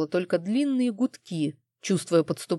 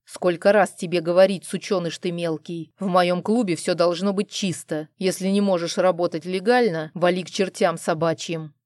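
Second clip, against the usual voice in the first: menacing anger. Acted. Husband threatens dealer against wall.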